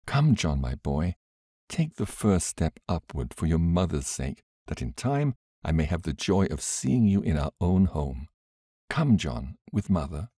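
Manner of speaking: gentle coaxing mother; lightly voiced caressing mother. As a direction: coax him tenderly upward. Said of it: "her say caressingly".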